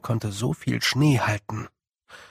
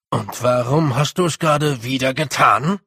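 a gruff little warrior, grim and serious; gruff Rob; 5 dB louder than usual. Acted. Rob warns the others about the Wintersmith, gruff and grim. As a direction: mutter darkly about the Winter smith.

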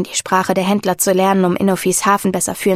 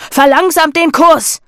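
slow bellowed order; 8 semitones higher, 6 dB louder, slower than usual. A narrator's reading. Captain orders his men.

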